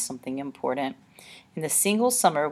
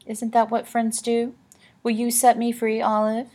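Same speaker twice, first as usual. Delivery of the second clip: coaxing lady voice; 5 semitones higher, 4 dB louder than usual. Acted. Annabelle coaxes Olive.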